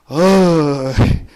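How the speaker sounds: very slow Chungcheong "어이", dragged out; drawn-out Chungcheong grunt. Retold or imitated. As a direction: stretch "어이" like a gruff Chungcheong man. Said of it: "그게 충청도". (충청도 사투리로 아주 길게 끄는 "어이")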